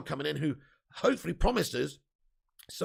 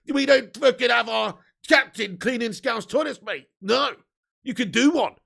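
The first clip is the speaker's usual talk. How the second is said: angry; 3 semitones higher, 5 dB louder than usual. Real, not acted. Angry rant about Liverpool fans.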